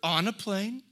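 slow, loud, high shout of joy; triumphant yell, dragged out; excited shout. Retold or imitated. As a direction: shout it out like you're flying. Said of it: "Why not just be like".

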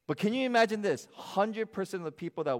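high, loud, fast burst of wonder; excited appeal. Real, not acted. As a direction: fire up the congregation with it.

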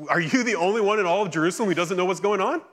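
distressed disciples. Retold or imitated. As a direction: pour out the whole disappointment in a rush. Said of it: "And they go".

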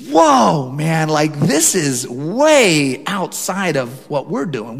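awed whoa. Retold or imitated. Pastor reliving his awe at the bigger church. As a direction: marvel at it all, drawing it out. Overwhelmed at big church conference.

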